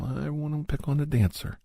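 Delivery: mocking bully. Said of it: "Everybody pick on 'em".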